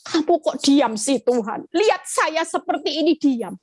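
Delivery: mildly indignant complaint, retold; aggrieved mock confrontation; angry at God. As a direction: protest to God, pitch lifting at the end. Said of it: "Saya marah sama Tuhan".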